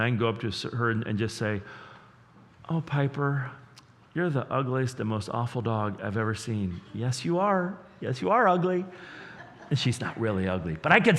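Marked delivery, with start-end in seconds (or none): 2.7-8.8 put-on sweet sing-song baby talk to a dog; gentle tone. Shown as a demonstration. Pastor cooing sweetly to his dog Piper. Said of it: "As long as I talk in a gentle tone".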